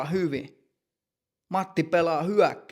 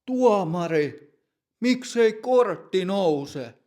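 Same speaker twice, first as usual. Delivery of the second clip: angry shout; 4 semitones higher, 4 dB louder, slower than usual. Acted. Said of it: "ja huutaa".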